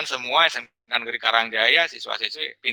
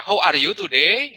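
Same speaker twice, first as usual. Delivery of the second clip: English with a Sundanese accent; demonstrating Sundanese-accented English; 3 semitones higher than usual. Shown as a demonstration. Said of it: "masih kena lapatna lapat Sunda".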